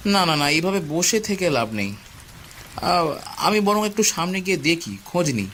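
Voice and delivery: slowly. Acted. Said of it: "রাঘব ধীরে ধীরে বলল".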